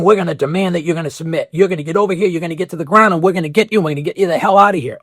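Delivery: rapid-fire, barking orders, mock authoritarian; hurried, lightly hammed-up enforcer; bossy authority figure. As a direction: rattle off the threats fast like a cop. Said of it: "are also saying".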